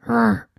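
short imitated animal grunt; little grunt. A narrator's reading. Unseen creature heard in the dark cave, little grunt. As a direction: give one short grunt. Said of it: "heard a little grunt".

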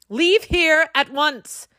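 slow, high commanding squeak; a tiny king giving orders; squeaky command. A narrator's reading. Fairy king ordering the children out, squeaky. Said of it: "commanded ... in a squeaky voice".

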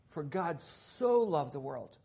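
slow, "so" weighed in "For God so loved the world"; reverent stress on so. Shown as a demonstration. Preacher rereading the verse with reverence. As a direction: say it slowly, with awe. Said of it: "when we talk about this with God".

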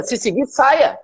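whispered, almost secret. Real, not acted. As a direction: drop to a sharp whisper. Tells poor followers to leave.

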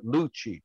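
LUCIC leaning hard on the first syllable; slow down and accent the start of Lucic; first-syllable stress. Retold or imitated. Player explaining his name by comparison, stressed first syllable. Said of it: "really put the accent on the first syllable".

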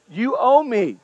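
a hint of a sulky older brother, falling firmly; lightly voiced grudge, flat demand; mild mock resentment, stating a debt; resentful older brother. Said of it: "That's what he's saying".

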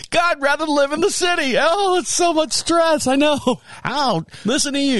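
high-pitched, hammed-up griping; mock whining. Country dweller complaining about stress, mock whining. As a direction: moan about it in a high comic whine. Hams up his own complaining.

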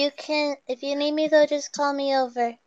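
timid-sounding, light and quiet; soft offer. Acted. Kree answers Angus in character.

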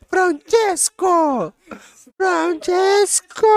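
high, slow, drawn-out Italian cry; italian accent portuguese. Pretend. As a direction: wail the name like a hammy Italian. Italian caricature banter.

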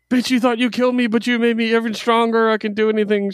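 high, cocky mock gloat; gloating villain voice. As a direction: sneer it like a smug comic villain who just came back stronger. Comic character gloating, voiced.

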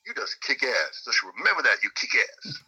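lightly imitated Southern praise; mock Southern good old boy; Clayton's Southern accent. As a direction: give earnest praise in a put-on Southern accent. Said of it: "super Southern accent".

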